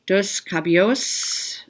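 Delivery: Spanish read with an American accent; slow, careful anglicized Spanish. Real, not acted. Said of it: "I apologize about my Spanish pronunciation".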